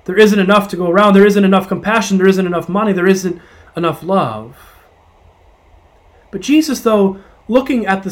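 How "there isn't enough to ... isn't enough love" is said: quick, rising, anxious insistence on "isn't"; anxious scarcity. Acted. Scarcity's voice urging the weary disciples, anxious and insistent. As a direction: press "isn't" harder with each line. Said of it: "Scarcity that says".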